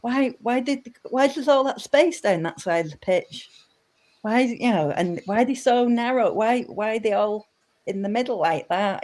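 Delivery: asking like a confused mum watching the telly; puzzled mum. Retold or imitated. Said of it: "She's like".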